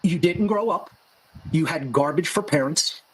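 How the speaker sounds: calm, measured delivery; real calm. Shown as a demonstration. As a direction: deliver the insult evenly, without heat. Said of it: "I'm gonna say it real calm".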